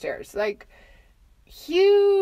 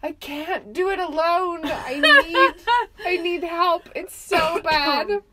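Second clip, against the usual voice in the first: retold panic; 5 semitones higher, 4 dB louder than usual. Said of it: "in a wild screaming panic".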